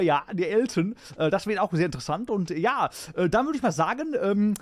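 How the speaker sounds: lightly voiced TV host patter; lively talk-show host impression; Stefan Raab. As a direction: rattle off like a chatty show host. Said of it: "I'll do Stefan Raab first".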